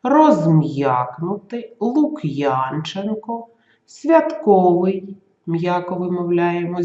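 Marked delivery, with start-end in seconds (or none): 0.0-5.2 slow and deliberate, every syllable separate; clear, careful pronunciation. Shown as a demonstration. Teacher pronounces exercise words slowly for pupils. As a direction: spell each word out with your voice. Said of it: "чітко їх вимовити".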